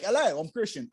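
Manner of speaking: lightly put-on English pimp; a rough attempt at an English accent; mock English accent. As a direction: greet like a hammed-up English pimp. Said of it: "sounds like the name of an English pimp".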